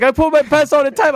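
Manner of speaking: high-pitched imitated Hispanic accent; Hispanic janitor. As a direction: comfort the kid in a put-on Hispanic accent. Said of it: "tiny little Hispanic janitor guy".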